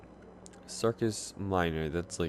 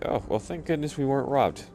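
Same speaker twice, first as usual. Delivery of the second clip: mock relieved; 8 semitones higher, 4 dB louder than usual. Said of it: "I was like".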